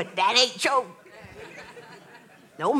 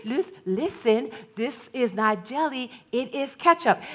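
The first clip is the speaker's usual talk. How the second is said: calm patient mother; 7 dB quieter than usual. Retold or imitated. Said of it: "And she would say".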